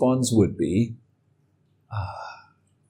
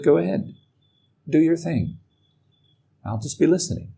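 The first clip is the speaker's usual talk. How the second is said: lightly higher, unbothered brush-off to his own mind; carefree permission, higher pitched; breezy go ahead; 6 semitones higher than usual. Retold or imitated. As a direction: let it complain, shrug it off airily. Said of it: "I just tell it".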